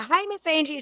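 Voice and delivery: high-pitched little hello; sing-out mock hello; mimicked greeting. Mimics the girl's greeting in passing.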